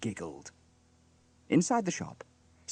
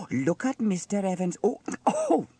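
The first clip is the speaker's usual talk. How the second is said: high, exclaiming busybody, then collecting herself; nosy gossip, riveted; 8 semitones higher, 3 dB louder than usual. A narrator's reading. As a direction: get carried away spying, then compose yourself. Narrator voices Dilys spying.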